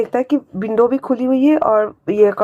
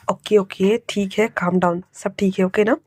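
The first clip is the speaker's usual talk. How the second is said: calm down; 2 semitones lower than usual. Acted. Uncle calms scared Wing.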